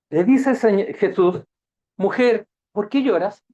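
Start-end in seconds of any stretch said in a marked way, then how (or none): 2.0-3.4 the question asked louder and firmer. Shown as a demonstration. Jesus asks Mary at the tomb, firm and louder. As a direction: press the weeping woman with a firm ask. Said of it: "La misma pregunta".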